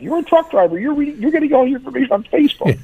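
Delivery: high, exasperated doctor's comeback; indignant retort. Retold or imitated. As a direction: fire back with indignation.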